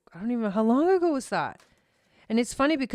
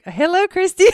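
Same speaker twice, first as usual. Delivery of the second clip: excited greeting; 11 semitones higher, 7 dB louder than usual. Real, not acted.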